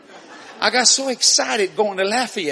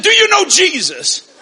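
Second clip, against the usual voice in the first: loud witnessing; 10 semitones higher, 7 dB louder than usual. Retold or imitated. Preacher witnesses to trooper.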